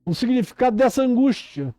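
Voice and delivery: urgent, insistent sermon delivery; impassioned preaching. Real, not acted. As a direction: preach it with rising urgency, stretching the key words.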